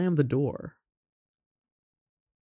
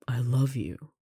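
whispered confession; 4 dB quieter, slower than usual. Acted. Confessing love to roommate.

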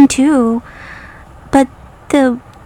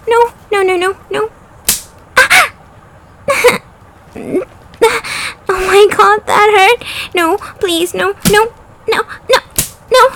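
anguished denial; 4 semitones higher than usual. Acted. Pleading no, please.

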